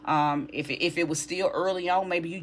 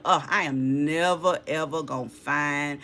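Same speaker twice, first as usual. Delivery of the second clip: hammed-up pleading, louder on the Lord part; mock whiny lament; 4 dB louder, slower than usual. A reader mocking a lonely querent's lament, hammed-up pleading. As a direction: playfully whine and beg the Lord, slowing down. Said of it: "You know how you like".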